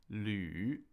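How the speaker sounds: 旅 in a low third tone. Shown as a demonstration. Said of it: "with a third tone".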